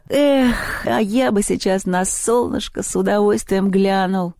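slow dreamy sigh, smiling; blissful. Acted. Мишка dreams of sunshine, slow blissful smiling voice. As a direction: stretch out lazily and dream aloud. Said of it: "с блаженной улыбкой".

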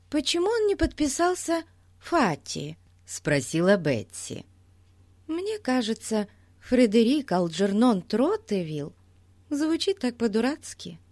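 put-on high, eager child voice; bubbly young girl, proud; excited little girl. A narrator's reading. Голос Бетси в сказке. (восторженная девочка)

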